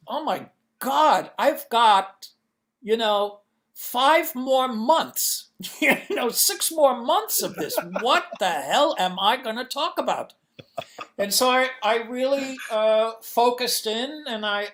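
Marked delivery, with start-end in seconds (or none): 0.1-10.3 higher, louder mock dismay, laughing partway; retold panic. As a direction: replay the panicked realization, exaggerated for comedy. Retells his panicked first-class realization.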